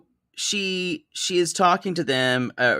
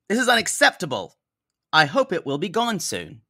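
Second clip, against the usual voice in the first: quoting mom; 2 semitones higher than usual. Retold or imitated. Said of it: "this is the quote from the mom".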